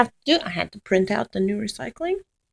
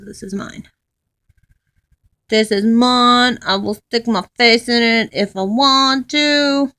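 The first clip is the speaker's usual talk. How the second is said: dog voice; 2 semitones higher, 8 dB louder than usual. Pretend. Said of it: "He says".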